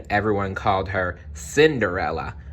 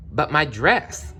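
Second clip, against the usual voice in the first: higher, slow worried plea; worried Cinderella; 6 semitones higher, slower than usual. Acted. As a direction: point at the rags with worry. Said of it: "said Cinderella".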